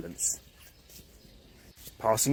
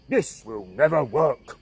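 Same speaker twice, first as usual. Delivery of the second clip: huffy; slower than usual. Acted. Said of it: "crossed his arms in a huff".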